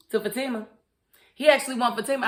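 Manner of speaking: talking through a mouthful of food; mouth full. Real, not acted. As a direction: say it while still chewing. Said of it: "I'm sorry, I was eating".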